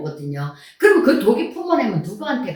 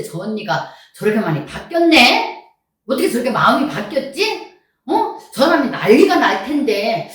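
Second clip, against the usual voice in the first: higher, louder onlooker's wondering; acted amazement; 4 semitones higher, 5 dB louder than usual. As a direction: play a puzzled, impressed acquaintance marvelling. Acted onlookers amazed at her change.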